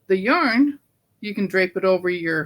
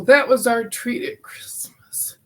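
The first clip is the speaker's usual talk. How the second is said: emotional; 4 semitones higher than usual. Real, not acted. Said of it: "I don't know why I'm getting so emotional".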